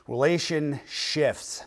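Relationships said slowly as "relation-shifts", with an F before the final TS. Shown as a demonstration. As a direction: draw out Relationships, ending it in "shifts". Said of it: "not relationships, but relationships".

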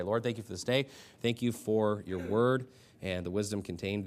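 subdued pastor's prayer after preaching; closing prayer. Real, not acted. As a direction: lead the congregation in prayer, evenly.

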